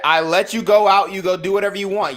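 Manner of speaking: a hint of a mocking whine; mocking quote. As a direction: parrot his line back, mocking. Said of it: "You heard it".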